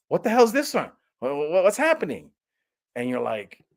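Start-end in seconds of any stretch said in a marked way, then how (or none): 0.1-2.3 high, baffled what's happening; mock confusion. Viewer confused by the film's cuts, mock bewildered. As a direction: play the confused viewer, higher.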